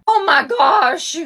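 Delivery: high, slow crying shout; hysterical crying. Acted. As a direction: sob out in disbelief. Acted Big Brother grief scene.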